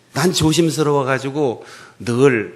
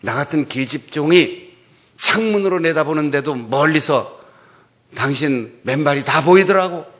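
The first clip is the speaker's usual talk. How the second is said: scolding wife; 4 semitones higher, 7 dB louder than usual. Retold or imitated. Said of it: "이렇게 비난하는데".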